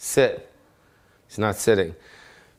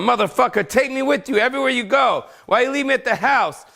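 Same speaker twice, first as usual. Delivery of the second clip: voicing the dog; 10 semitones higher than usual. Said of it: "he's going".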